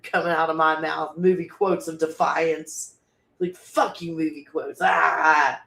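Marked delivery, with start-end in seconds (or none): 3.4-5.6 worked-up shout. Real, not acted. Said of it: "I got all worked up".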